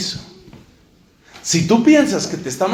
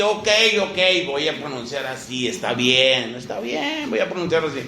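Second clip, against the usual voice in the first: grudging compliance; 3 semitones lower, 3 dB quieter than usual. Acted. Acts out learner giving in.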